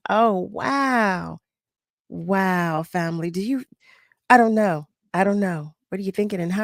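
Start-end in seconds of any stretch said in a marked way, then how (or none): none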